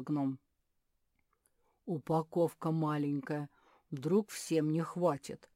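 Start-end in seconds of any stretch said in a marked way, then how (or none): 1.8-5.5 mildly worried. Acted. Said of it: "забеспокоился медведь".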